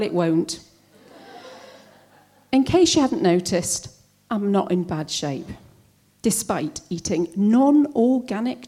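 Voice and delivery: measured comic poem with pointed pauses; poem recital. Acted. Poet addressing well-meaning acquaintances about cancer, wry recital. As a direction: recite it with lively, swooping intonation.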